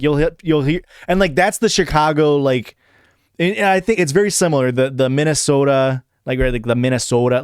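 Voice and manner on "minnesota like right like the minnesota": Minnesota with the "o" held longer; lengthened o in Minnesota. Shown as a demonstration. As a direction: stretch the "so" in Minnesota. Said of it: "the longer vowel there".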